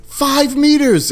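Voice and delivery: high and very slow; tense call-out. Retold or imitated. Marine reading the tracker, slow high tense call. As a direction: stretch it out, dread building. Tracker shows the alien close.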